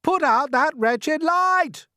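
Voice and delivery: high, loud and slow demand; angry shout. Acted. Centipede yells at glowworm to kill light, angry shout. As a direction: bellow it at the light. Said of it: "he shouted".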